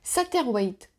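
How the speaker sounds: "Satterwhite" said the English way, playfully; mock English accent. Shown as a demonstration. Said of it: "mon super accent anglais va, euh, frapper". ("Satterwhite" avec un accent anglais exagéré pour rire)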